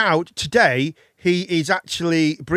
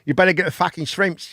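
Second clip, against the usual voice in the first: put-on Australian accent; 3 semitones lower than usual.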